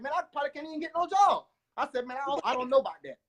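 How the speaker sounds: high, quick doubtful protest; retold protest. To his girlfriend, doubting he could get a job, high quick protest. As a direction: rush it up high, unsure of any job. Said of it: "I'm like".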